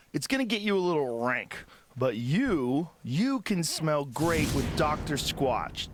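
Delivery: measured, emphatic sponsor read; podcast ad read. Acted. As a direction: read the sponsor copy in deliberate, punchy phrases. Reads a sponsor ad.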